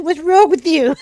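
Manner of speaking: mock-puzzled guy, high and loud; clueless guy. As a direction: play the oblivious husband, lightly. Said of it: "He's like".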